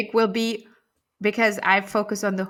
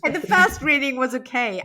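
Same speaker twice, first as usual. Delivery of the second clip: laughing; 5 semitones higher than usual. Real, not acted. Speaks through laughter.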